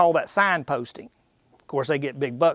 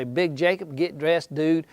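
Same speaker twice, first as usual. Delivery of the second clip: put-on excited young bucks. Young bucks urging Big Jacob to party, excited. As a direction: hype the old buck into a night out. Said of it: "they come home one night".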